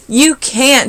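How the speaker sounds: high, loud holler. A narrator's reading. Sammy hollers at Kevin, high and loud. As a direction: holler it across the sandbox. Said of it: "Sammy hollered".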